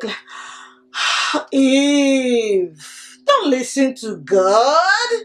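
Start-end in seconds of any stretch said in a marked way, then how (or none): 1.5-5.1 whispering snake. Acted. Storyteller snake whispering to Eve to look at the fruit. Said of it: "The snake whispered".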